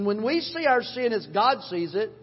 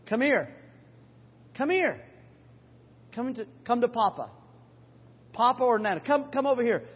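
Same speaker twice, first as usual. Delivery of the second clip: grandpa calling grandkids; 2 semitones higher than usual. Retold or imitated. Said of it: "I say to my grandkids".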